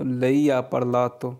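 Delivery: very slow, each Italian word laid out clearly; slow model reading. Shown as a demonstration. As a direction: read it slowly for learners to copy. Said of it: "teacher models Italian phrase". (धीरे-धीरे साफ़ उच्चारण)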